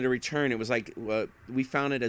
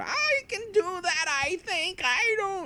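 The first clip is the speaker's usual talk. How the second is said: put-on very high, slow, muddled, confused old man voice. Retelling a refund exchange with a customer, in a confused old man voice. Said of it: "I'm doing my old man voice, confused old man".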